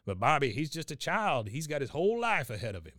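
put-on gruff old grandpa voice. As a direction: bark it like an ornery old veteran. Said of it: "He goes".

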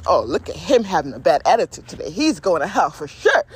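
loud, sassy imagined condemnation; hammed-up disapproving verdict; mock judgmental God. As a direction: pass judgment like a gossiping onlooker. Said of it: "I don't think God is looking at us like".

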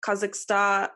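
slow, mock Russian accent. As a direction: say the places in a hammy Russian accent. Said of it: "Say it in your Russian accent".

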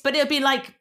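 ordinary delivery

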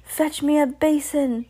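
sickened witch giving orders; Grand High Witch. A narrator's reading. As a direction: complain high, as a disgusted witch. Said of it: "said the Grand High Witch".

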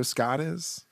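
usual speaking voice

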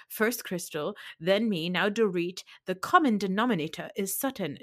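mimicked over-enunciation of "common denominator"; enunciating shtick. Erica accusing Sutton, imitated enunciating shtick. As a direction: hit every single syllable of "common denominator is Sutton". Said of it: "her little enunciating shtick".

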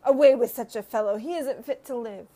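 loud, furious mob shout; a crowd shouting for his death. A narrator's reading. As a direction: yell it out like an angry crowd. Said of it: "Then they all began to shout".

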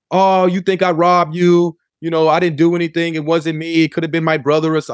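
high, pleading mock denial; a hint of the girlfriend protesting innocence. Ex-girlfriend on phone denying robbery.

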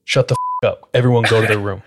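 imitating a no-arguments order; retold stern command. D overruling the protesting cousins, retold stern command. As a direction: cut off protests, mildly stern. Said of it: "he's not hearing any of it".

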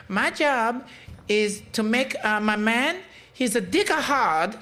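high put-on Asian accent, imitating; mock Asian accent. Host quoting the viral Asian woman, high mock Asian accent. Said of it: "I'm doing the accent".

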